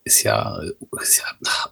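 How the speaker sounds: half-whispered, cutting out like bad reception; crackly phone line. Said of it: "so ein Rauschen in der Leitung".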